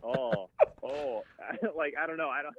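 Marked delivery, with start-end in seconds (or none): 0.0-1.2 lightly voiced stoner; laid-back, drawn-out stoner; stoner impression. Shown as a demonstration. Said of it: "kind of a stoner impression".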